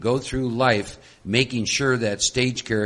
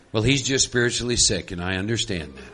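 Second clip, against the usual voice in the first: serene spiritual woman; 3 semitones lower than usual. Retold or imitated. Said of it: "here's what she would say if she's real spiritual".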